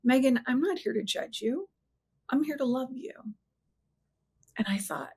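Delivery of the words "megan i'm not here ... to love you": gentle. Retold or imitated. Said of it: "sincere and gentle".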